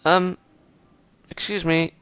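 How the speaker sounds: put-on high shy girl voice; sweet timid young woman. Voicing the girl character.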